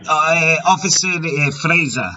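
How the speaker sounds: put-on a loose, wandering Mexican accent. Prank caller fooling a scammer in a put-on Mexican accent. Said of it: "My Mexican accent is all over the place".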